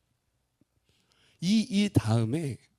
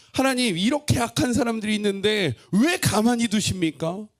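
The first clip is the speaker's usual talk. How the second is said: pleading cry; 6 semitones higher, 5 dB louder than usual. Acted. Voicing the prophet's complaint.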